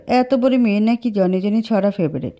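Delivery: irritated disbelief; annoyed man mocks her favourite rhyme. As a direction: say it with a tired sneer. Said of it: "বিরক্ত গলায় বলল".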